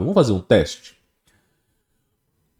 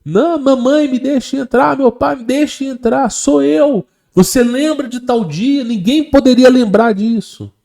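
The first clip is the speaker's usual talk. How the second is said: much higher pleading voice of a son at the door; demon faking the son; 12 semitones higher than usual. Retold or imitated. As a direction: beg to be let in, pitched way up like a young son. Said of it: "fingindo ser seu filho".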